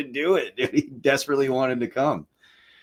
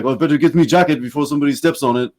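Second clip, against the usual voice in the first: put-on joking Frenchman, higher French-accented voice; 4 semitones higher, 4 dB louder, faster than usual. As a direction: imitate a tipsy Frenchman's joke, French accent. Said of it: "with the accent and the cognac".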